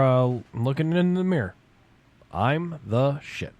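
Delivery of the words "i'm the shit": slow mantra. Shown as a demonstration. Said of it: "Just remember two words".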